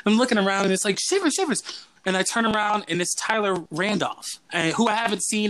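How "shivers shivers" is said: high, sing-song calling of a name. Retold or imitated. Old camp friend calling him across the restaurant, high sing-song call. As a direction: call across the room, pitched up.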